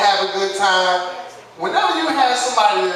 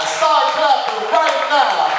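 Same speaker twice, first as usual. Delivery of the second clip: louder Start clapping right now, hitting right; shouted announcer call; 4 semitones higher, slower than usual. Shown as a demonstration. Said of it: "repeated louder".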